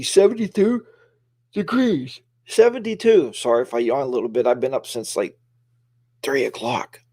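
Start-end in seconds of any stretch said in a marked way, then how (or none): 0.0-3.3 high, disbelieving repeat of the number; amazed. Real, not acted. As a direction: marvel at how warm it is. Amazed at warm riding weather.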